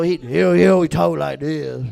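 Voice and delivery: loud, slurred redneck voice; Jacob's redneck drawl. Retold or imitated. Comic demonstrating how his coworker talked, redneck drawl. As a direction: do a trashy redneck juggalo accent. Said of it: "like a shitty redneck juggalo".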